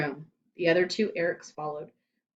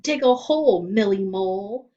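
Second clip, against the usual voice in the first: taunting rhyme; 2 semitones higher, 7 dB louder than usual. A narrator's reading. Playground insult battle.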